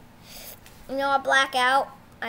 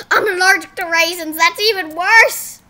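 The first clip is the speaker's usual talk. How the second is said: louder, crying mock complaint; whiny officer; 3 semitones higher, 10 dB louder than usual. Officer wailing about raisin allergy, mock crying. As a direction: whine it like a fake sob.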